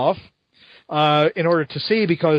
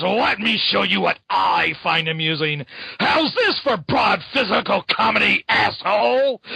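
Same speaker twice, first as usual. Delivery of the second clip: mock taunt; 2 semitones higher than usual. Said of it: "and he says".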